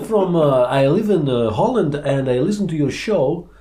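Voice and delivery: a hint of a Dutch accent. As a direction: play an eager Dutch fan. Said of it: "that was a Dutch accent".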